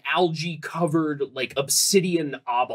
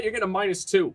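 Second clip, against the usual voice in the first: shouting; 3 semitones higher, faster than usual. Real, not acted. Shouted judgement.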